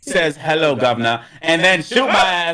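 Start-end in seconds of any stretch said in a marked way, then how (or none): 0.4-1.2 a light, hammed-up British accent; mock British accent. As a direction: say it like a fake Brit. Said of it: "her accent could have been stronger".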